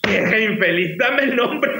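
indignant demand, pitch jumping up at the end; retold angry mother. Mother demands the woman's name from her son, angry. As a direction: imitate mum demanding, mildly angry. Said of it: "se enojó bastante".

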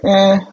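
short, high-pitched dismissive "eh"; imitating a curt brush-off noise. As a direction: toss out a high little "eh". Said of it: "gave her one of those".

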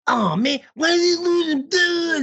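high, whiny mock dismay with a cry in it; imitating a dismayed wife; mock wife's wail. Wife voiced reacting to score.

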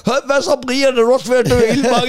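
lightly voiced high, fast chatty fish. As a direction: play a dying fish chatting to its mate. Fish talking to each other while suffocating. (en let spillet fisk med høj, hurtig stemme)

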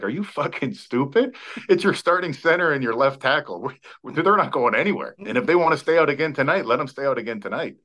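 lightly acted coach overruling his staff; Butch Davis. Coach defending two starters who missed curfew, mildly exasperated imitation. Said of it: "Butch Davis was like".

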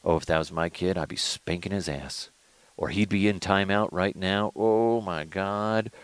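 disapproving commentary, kept under your breath; quietly tut-tutting onlooker; judgmental parent. Acted. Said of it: "judge the shit out of those parents".

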